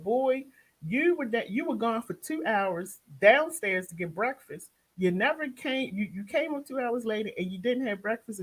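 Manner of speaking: exasperated dressing-down, punched openings; indignant scolding. Acted. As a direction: scold him as if he stood right there. Scolds the absent husband indignantly.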